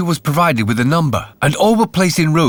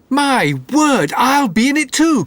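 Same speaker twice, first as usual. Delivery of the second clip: a higher, eager lad's exclamation; eager cry; 9 semitones higher than usual. A narrator's reading. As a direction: blurt it out with mild excitement. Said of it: "cried Jack the Dullard".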